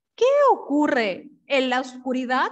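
ordinary delivery

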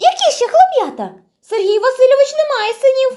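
astonished, wondering, very high-pitched voice. Narrating Vesnyanka reacting to the uncle calling for boys, surprised. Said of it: "здивовано звела брівки".

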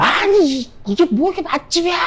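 high, furious yelling outburst.

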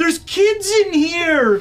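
mock startled, alarmed, high, drawn-out freaked-out cry. Recapping a story, acting out a character's line, a freaked-out cry. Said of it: "Ruth kind of gets freaked out and she's like".

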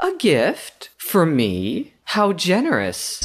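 sarcastic. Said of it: "it's most likely gonna be sarcastic".

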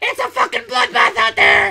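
very high, rasping, rough, shrill, loud screeching yell. Recalling Aaron voicing the Toads in Super Mario Galaxy, doing the Toad voice. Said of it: "he was voicing the Toads".

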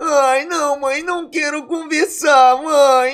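crying, tearful and weeping. A son answers his mother asking what happened, crying. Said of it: "Por que que você tá chorando".

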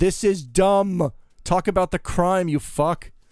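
put-on screaming, high-pitched and drawn-out. Recounting watching an episode, reenacting screaming at their phone. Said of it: "the whole time I'm screaming at my phone".

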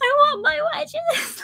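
very high, acted-out, screamed tantrum. Recalling a day, the speaker re-enacts screaming as Liam opened the door: retelling own screaming. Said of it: "and then I was still screaming".

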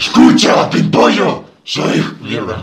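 foul-mouthed devil character voice. Playing the devil in a comedy sketch, in a devil character voice. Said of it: "¡Soy el diablo!".

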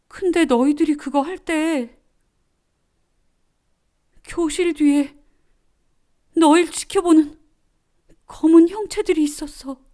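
very high, quavering, trembling voice. Narrator voicing Seol answering her friends' question, trembling voice. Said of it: "떨리는 목소리로 말을 이었다".

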